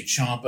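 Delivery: Ciampa with an open "ah" as in "chomp"; CHOMP-uh pronunciation. Retold or imitated. Co-host retelling the on-air argument, Ciampa as CHOMP-uh. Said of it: "then somebody'd say".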